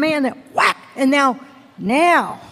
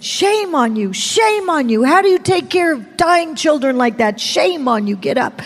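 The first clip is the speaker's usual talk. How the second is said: imitated stern reproach, falling at the end; scolding. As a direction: scold like an offended stranger. Imitating strangers scolding her.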